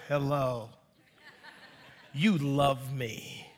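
a soft, slow, pleading puppy voice; soft and slow, doing a puppy's plea. Retold or imitated. Pastor voicing the pet-store puppy charming his kids, soft and slow.

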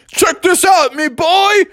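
high, hearty seafaring captain; Captain Crunch. Acted. Captain showing the boy a slide, hearty. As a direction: show off with sailor swagger. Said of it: "So Captain was like".

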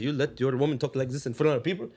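put-on scolding man with an Arab accent; indignant Arab-accented lecture, rising in force. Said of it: "as an Arab and be like".

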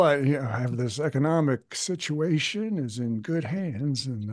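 lightly voiced Biden impression; a hint of an old politician; Joe Biden impression. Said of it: "This has been Impressions by Cam".

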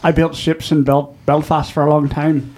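put-on Irish brogue; mock-proud Irish accent. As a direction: play a Belfast shipbuilder with an Irish accent. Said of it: "trying to do an Irish accent".

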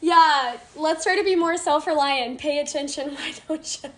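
teasing instructor voice with a laugh; lightly played smug scolding; imitating the instructor. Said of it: "He was like".

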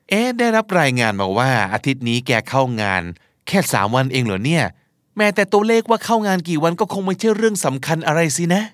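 acted snide, needling boss; mock boss taking a dig at staff. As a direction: needle the employee with mild sarcasm. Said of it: "นี่คืออารมณ์จิกกัดแดกดัน".

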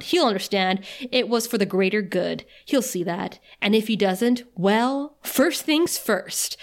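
lightly voiced scheming villain; evil villain monologue. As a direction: read it like a cold villain. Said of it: "evil villain monologue".

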